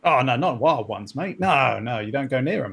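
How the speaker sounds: drawn-out Cockney protest; attempted Cockney accent. Crewman refuses to go near wild spiders, attempted Cockney accent. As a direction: warn them off in rough Cockney. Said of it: "can you do the Cockney accent".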